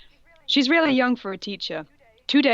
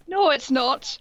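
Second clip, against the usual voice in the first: angry shout; 5 semitones higher, slower than usual. Acted. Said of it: "I shouted angrily".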